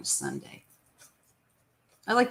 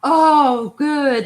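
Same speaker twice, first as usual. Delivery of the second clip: delighted; 8 semitones higher, 11 dB louder than usual. Real, not acted. Daughter brings more coffee.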